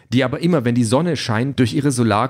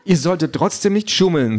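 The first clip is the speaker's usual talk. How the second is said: higher, prim machine voice; prim robot Calliope; 4 semitones higher than usual. Acted. Calliope objects to the cheating, higher and prim. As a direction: sound offended like a proper robot.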